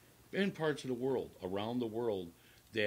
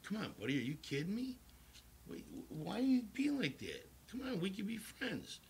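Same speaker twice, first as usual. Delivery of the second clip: higher, pleading and friendly; 10 semitones higher, 3 dB quieter than usual. Retold or imitated. Pleading with the angry stranger, high and friendly. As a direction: coax him like a hurt pal, rising high. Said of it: "And I'm like".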